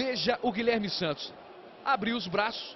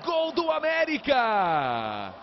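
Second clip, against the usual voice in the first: drawn-out goal call; much slower than usual. Real, not acted.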